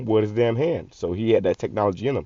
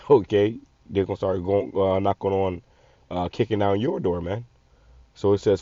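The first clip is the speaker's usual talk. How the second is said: ordinary delivery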